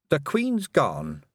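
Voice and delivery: slow, grave fluster; flustered witch. Acted. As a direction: break bad news, shaken. Miss Tick breaks the news.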